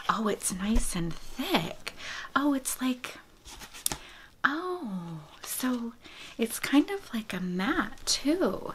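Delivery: breathy hush, as if close to the mic; ASMR whisper. Real, not acted. Whispering to viewers about baby gifts, ASMR whisper.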